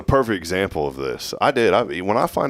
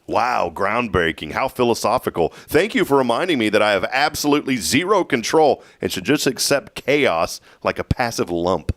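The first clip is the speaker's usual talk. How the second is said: sarcastic roast; 2 semitones higher than usual. Acted. Host roasting a cliché, sarcastic. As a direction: feign being deeply impressed. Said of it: "I'm gonna roast this phrase".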